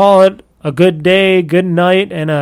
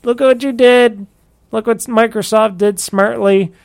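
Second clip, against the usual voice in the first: mocking taunt; 6 semitones higher than usual. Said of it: "Everybody's gonna laugh at Sony and go".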